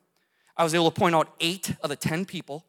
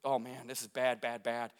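quiet dread; 7 semitones lower, 11 dB quieter than usual. Retold or imitated. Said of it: "And I was like".

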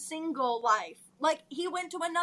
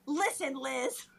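laughing through lines; 5 dB louder than usual. Acted. Acted quarrel, reading Ed.

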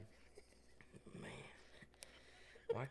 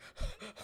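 mock gasp; 3 dB quieter than usual. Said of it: "I'm like".

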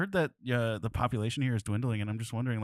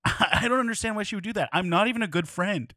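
mock whiny guy; 8 semitones higher, 3 dB louder than usual. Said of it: "it could be like".

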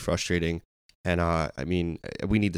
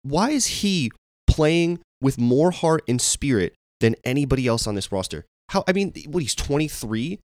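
frustrated outburst; 5 semitones higher than usual. Real, not acted. Fan venting to her co-host, high exasperated disbelief. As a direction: vent your disbelief, pitch climbing. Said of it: "you can hear it in my voice".

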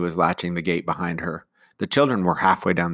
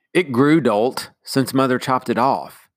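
raised, scornful schoolboy; scornful brother; 5 semitones higher, 6 dB louder, slower than usual. Acted. Tim to Jane, a raised scornful retort. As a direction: sneer the insult at her.

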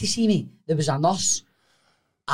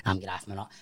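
frightened whisper; 10 semitones lower, 13 dB quieter than usual. Retold or imitated. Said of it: "I was like".

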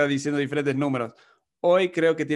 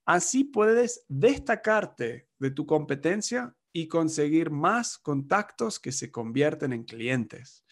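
mock ad pitch. Marketing agency pitching its website service, mock upbeat ad read. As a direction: sell it like a lightly hammed-up agency ad. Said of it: "La agencia de marketing puede decir".

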